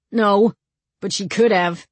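mildly sulky retort, pitched a bit up. A narrator's reading. Younger brother grumbling about being thrown downstairs, sulky. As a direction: push back like a sulky kid brother. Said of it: "he said sulkily".

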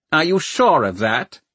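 high, cold questioning Lord Mayor; cold, thin voice. A narrator's reading. Lord Mayor doubting Valentine's account, cold and thin. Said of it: "cold, thin voice of the Lord Mayor".

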